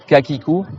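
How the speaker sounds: kakiku with k from the back of the tongue; plain k in kakiku. Shown as a demonstration. Teacher drills the letter ka, demonstrating plain k. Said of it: "au fond de la langue".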